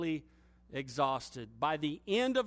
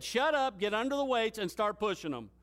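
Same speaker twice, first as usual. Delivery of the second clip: higher, firm barked command fading at the end; retold stern order; 5 semitones higher, faster than usual. Trainer ordering lifter back under the bench, stern barked command. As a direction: snap the order, then ease off.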